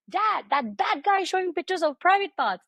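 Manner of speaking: high-pitched imitation of a little girl; daughter telling dad. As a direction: play a small child reporting to Dad. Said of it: "which is tell her dad that".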